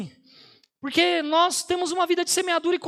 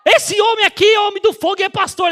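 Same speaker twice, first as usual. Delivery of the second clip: higher and louder, presenting with zeal; excited introduction; 4 semitones higher, 4 dB louder than usual. Retold or imitated. Nurse presenting the pastor to the nurses, excited. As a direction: announce him like a man of fire.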